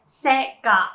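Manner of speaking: "Sega" as "SEH-gah"; correct pronunciation. Shown as a demonstration. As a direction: say "Sega" with a short e, se-ga. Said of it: "it's pronounced".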